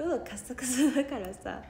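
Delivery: hoarse, dry throated voice. Real, not acted. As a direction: talk through a scratchy dry throat. (喉がカサカサの声)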